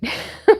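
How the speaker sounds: a sudden high burst of laughter. Real, not acted. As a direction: laugh out loud at yourself, real. Laughing at own breathlessness.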